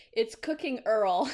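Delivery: "Earl" for oil, with an r-coloured vowel; local oil pronunciation. Retold or imitated. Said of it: "someone at the airport told us".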